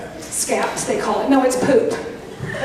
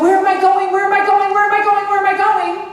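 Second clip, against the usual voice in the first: mock worried fretting; 5 semitones higher, faster than usual. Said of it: "we don't have to worry about".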